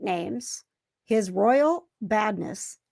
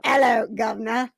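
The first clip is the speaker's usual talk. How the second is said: put-on British accent. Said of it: "You just sound like an American trying to be British".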